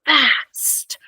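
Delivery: high, bright "Go fast". Shown as a demonstration. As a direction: make "Go fast" sound exciting. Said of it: "say that a little bit louder".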